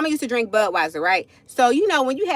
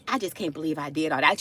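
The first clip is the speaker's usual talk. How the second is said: mama regretful; 6 semitones lower, 5 dB quieter than usual. Retold or imitated. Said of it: "she was just like".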